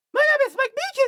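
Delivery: very high, loud, squealing cartoon voice with a lisp. Imagining a character introducing himself, in an overreactive lisping Mickey Mouse voice. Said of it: "like an overreactive Mickey Mouse, but with the lisp on that goes like this".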